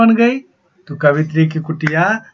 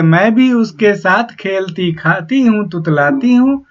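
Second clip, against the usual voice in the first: slow, measured reading of a verse; poem recitation; 3 semitones higher than usual. Acted. Teacher slowly reciting the poem to the students. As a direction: recite the lines slowly to the class.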